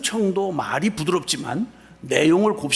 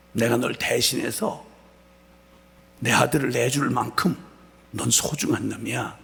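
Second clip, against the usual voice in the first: tender voice of the Lord; 3 semitones lower than usual. Retold or imitated. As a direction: speak it gently as a comforting promise to a hurt son. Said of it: "주님이 두 번째 깨닫게 해주신 건". (부드럽고 낮게 위로하듯)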